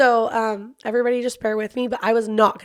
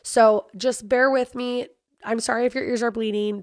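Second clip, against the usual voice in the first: hoarse, strained voice; talking through a wrecked voice; lost voice. Real, not acted. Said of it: "I sound like a dying man".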